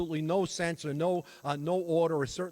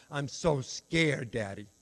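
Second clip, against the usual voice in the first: put-on slow, tearful little-boy plea, dropping low on Daddy; a touch of a crying five-year-old; retold sobbing child; 4 semitones lower, slower than usual. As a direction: quote a scared child through mild tears. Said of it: "He starts to sob".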